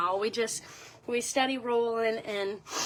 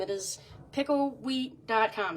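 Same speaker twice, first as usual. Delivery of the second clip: slow, careful repeat; 3 dB quieter than usual. Shown as a demonstration. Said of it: "Again, it is pickle wheat dot com".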